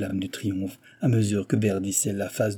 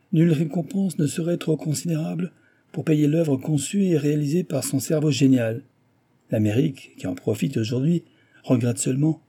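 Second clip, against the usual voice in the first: lightly voiced delegate, pitched up at first; formal tribute in a slightly raised voice; official delegate; 6 semitones higher than usual. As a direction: pronounce solemn praise as an official. Delegate makes an official pronouncement.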